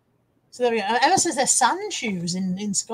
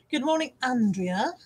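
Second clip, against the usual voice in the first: weird voice. Real, not acted. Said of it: "I said that in a really weird, weird voice".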